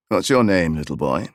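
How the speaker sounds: gentle low question from the tall horseman. A narrator's reading. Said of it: "he asked".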